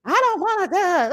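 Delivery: high, melodramatic wail; theatrical Quad impression. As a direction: overact a tragic plea. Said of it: "she would be kinda theatrical with it too".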